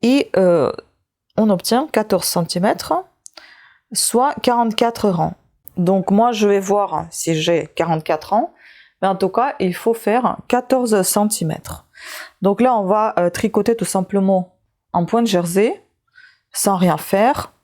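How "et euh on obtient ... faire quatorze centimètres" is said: talking with a pill in mouth; chewing while talking. Real, not acted. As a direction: speak around something in the mouth. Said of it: "c'est pour ça que vous m'entendez manger quelque chose".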